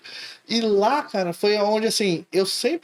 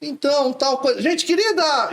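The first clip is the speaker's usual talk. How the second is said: teacher catchphrase; 7 semitones higher than usual. Retold or imitated. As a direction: break off mid-sentence with the catchphrase. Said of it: "eu começava uma frase". (professor interrompe a frase com o bordão)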